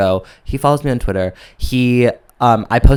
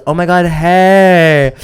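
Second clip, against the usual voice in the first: mock delighted; 6 semitones higher, 5 dB louder, much slower than usual. Imitating his delighted reaction.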